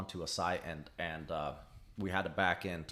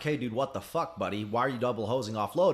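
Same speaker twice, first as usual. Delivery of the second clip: mock angry yell; 2 semitones higher, 5 dB louder than usual. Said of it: "a normal guy would have gone out there and been like".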